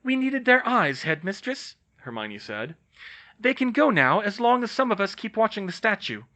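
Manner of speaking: firm. Acted. Hermione answers McGonagall.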